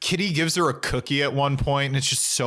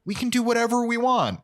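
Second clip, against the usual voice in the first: put-on valley girl; 8 semitones higher than usual. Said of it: "she's like".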